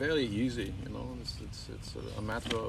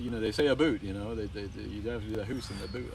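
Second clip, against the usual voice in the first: usual speaking voice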